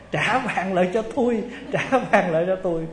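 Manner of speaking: mock pleading call. Robbed rich man calls after the woodcutter riding off, mock pleading. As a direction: call out in mild mock alarm.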